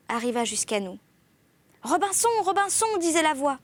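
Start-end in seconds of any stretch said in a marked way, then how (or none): 1.8-2.9 high-pitched plaintive call; strident, tearful voice. A narrator's reading. Parrot calling its master from the ship's end, strident plaintive cry. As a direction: wail the name up high. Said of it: "une voix stridente, éplorée".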